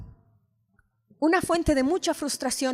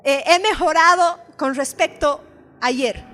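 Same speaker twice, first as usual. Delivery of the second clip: mock delight; 7 semitones higher, 8 dB louder than usual. Preacher imagines praising her office, mock delighted. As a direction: gush over the tidy desk. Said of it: "Nunca digo".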